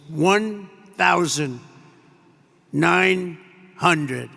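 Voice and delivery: slow, spaced-out cockpit callout; a hint of the machine counting down; computer altitude voice. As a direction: lightly imitate the plane's automated voice. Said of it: "you have the computer voice".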